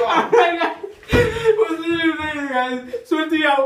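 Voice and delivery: loud, slow outro through full mouth; cheeks stuffed full. Real, not acted. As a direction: sign off round a mouthful.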